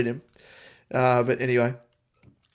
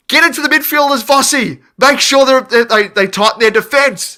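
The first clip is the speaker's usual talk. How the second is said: loud, high shouted instructions to the coach; yelling from the stands; 10 semitones higher, 8 dB louder than usual. Retold or imitated. A fan at the game yells direction at Vossi, high and loud. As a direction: bellow it across the ground at Vossi. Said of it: "I yelled, I was like".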